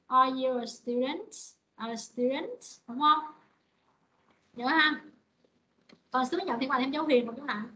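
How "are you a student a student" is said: slow "Are you a student?", climbing on the last syllable; rising intonation. Shown as a demonstration. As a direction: push the end of "student" sharply upward. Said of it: "Mình sẽ lên cái sắc vào cho cô".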